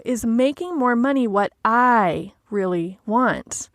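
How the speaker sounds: slow self-question, I drawn out and set apart; stress on I. Shown as a demonstration. Coach checking her own wish for money, stress on I. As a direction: lean on I and space out the last words. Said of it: "asking ourselves that question with that emphasis".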